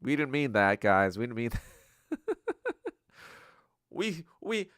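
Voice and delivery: high-pitched backpedaling apology, hammed up; mock panicked Singapore. Singapore apologizing to China and partners, mock panicked backpedaling. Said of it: "Singapore is gonna be like".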